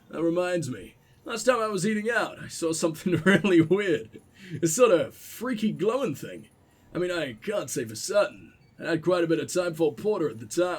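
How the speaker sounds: half-hearted gruff survivalist, chatty. Acted. Streamer reads the prepper's letter, lightly gruff. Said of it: "the gruff voice".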